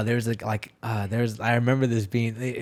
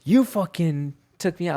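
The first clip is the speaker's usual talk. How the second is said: higher and louder, an outraged rant; riled-up gambler, pitched up and louder; angry bettor; 6 semitones higher, 4 dB louder than usual. Retold or imitated. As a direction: vent about the lost parlay. Bettor complaining about a lost parlay.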